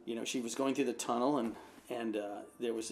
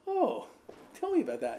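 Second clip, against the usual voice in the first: high mock-amazed "Oh" then eager ask; retold surprised interest; 10 semitones higher, 5 dB louder than usual. Donna to the old neighbor, surprised and eager. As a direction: play up the delight for the old lady. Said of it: "And she's like".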